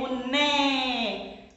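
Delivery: slow, drawn-out né; stress on NÉ. Shown as a demonstration. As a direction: stretch out the syllable né on its own. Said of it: "Qual que eu pronunciei com maior intensidade". (né alongado, bem marcado)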